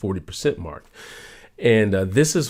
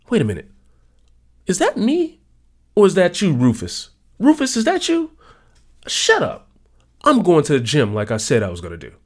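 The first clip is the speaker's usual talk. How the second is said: higher, louder, shouting down the voice; higher, louder playful scolding; mock shout at Rufus; 7 semitones higher, 4 dB louder than usual. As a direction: yell at the little voice to shut up.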